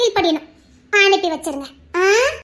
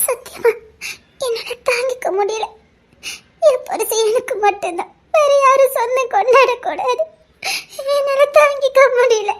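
crying. Acted. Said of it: "குழந்தை மாதிரி அழுதுகிட்டு".

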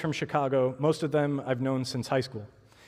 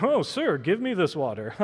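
joking. Retold or imitated. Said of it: "her response I almost read as, like, joking".

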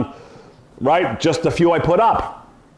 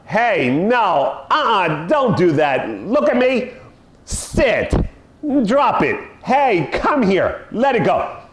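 lightly higher nagging commands to a dog; mock owner scolding dog; 4 semitones higher, slower than usual. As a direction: mimic a fussy owner bossing the dog.

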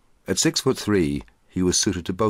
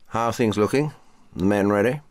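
major's voice; 7 semitones higher, 4 dB louder than usual. Acted. Major questions captain.

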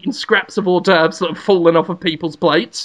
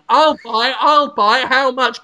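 eager buyer; 4 semitones higher than usual. Pretend. Eager crowd shouting to buy.

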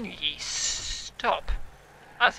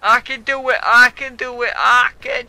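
pumping himself up; 3 semitones higher, 9 dB louder than usual. Real, not acted. Psyching himself up mid-game.

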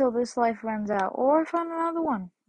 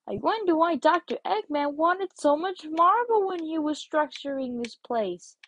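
lightly raised cartoon hero voice; Sonic impression; 2 semitones higher than usual. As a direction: keep dubbing the hedgehog with a hint of swagger. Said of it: "voice myself as Sonic".

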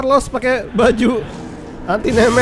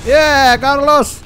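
drawn-out hero catchphrase; 2 semitones higher, 5 dB louder, much slower than usual. Pretend. Gamer hamming the catchphrase at the monster, slow and loud. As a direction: stretch Yeah, Carlos slowly and louder, then toss off Take this, bitch.

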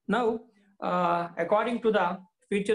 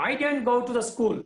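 stubborn repeat; 5 semitones higher, faster than usual. Acted. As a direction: dig in and repeat it quickly. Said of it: "repeated Swami".

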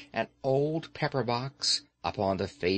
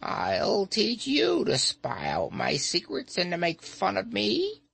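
put-on higher, threatening old witch; furious threat; 8 semitones higher than usual. A narrator's reading. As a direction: threaten him hotly. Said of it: "she exclaimed furiously".

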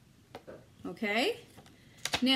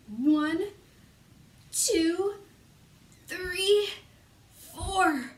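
big counting; 6 semitones higher, 4 dB louder, much slower than usual. Acted.

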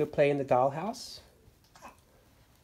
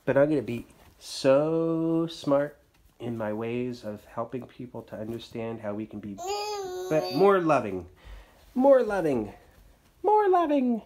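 building passionate speech; 5 dB louder than usual. Pretend.

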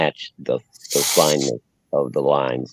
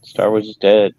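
loud declaration; 6 semitones higher, 5 dB louder than usual. Real, not acted. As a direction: proclaim it loudly, higher. Declares it loudly, then repeats.

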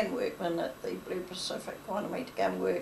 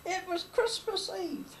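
words squeezed out through laughter; laughing; 9 semitones higher, slower than usual. Real, not acted. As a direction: laugh while you speak, slowly. Teller laughing at memory.

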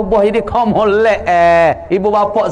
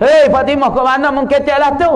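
angry husband; 5 semitones higher than usual. Acted. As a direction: call her out sharply by name. Ali scolding Fatimah angrily.

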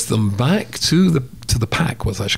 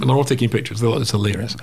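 ordinary delivery

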